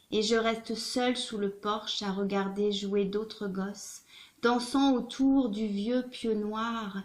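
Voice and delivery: measured, rhythmic reading of a poem; spoken song lyrics with deliberate phrasing; poem recitation. Acted. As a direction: recite it like a fable, lingering on the refrain. Recites a translated song text.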